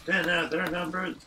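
stiff mechanical robot voice. Shown as a demonstration. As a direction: say it like a machine. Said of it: "I tried to do a robot voice".

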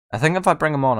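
usual speaking voice

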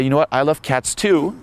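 mock girly reply; girl's reply. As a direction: lightly imitate her chirpy answer. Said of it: "And then she might say".

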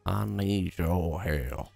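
slow Southern drawl, imitating; mock Southern accent. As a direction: echo it in a drawn-out Southern accent. Echoes the game character's Southern line.

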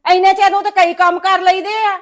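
scolding. Acted. Mother-in-law complains to daughter about daughter-in-law, loud. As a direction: hammer the point home loudly.

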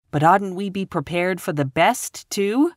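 put-on high girlish plea, rising at the end; pleading. A narrator's reading. Anne begging Eliza to allow hope, pleading. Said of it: "pleaded Anne".

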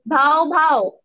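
loud, two-beat "bhau bhau" bark; imitated dog bark. Shown as a demonstration. Teacher quizzing children on animal sounds, imitated dog bark. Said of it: "I will make one sound".

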